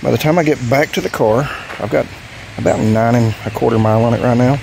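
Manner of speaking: winded after riding; breathless, catching air between words; out of breath. Real, not acted. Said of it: "Sorry, out of breath".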